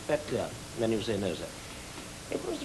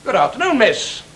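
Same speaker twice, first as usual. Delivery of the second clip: put-on bright, raised greeting to the girl; the director demonstrates to the actor, higher and lighter; demo greeting, higher; 7 semitones higher than usual. Shown as a demonstration. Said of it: "I'll show you what I mean".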